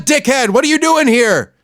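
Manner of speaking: high, exasperated mock customer; mock angry customer. Comic playing a customer grilling a clerk, high exasperated mock. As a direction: badger the frozen clerk.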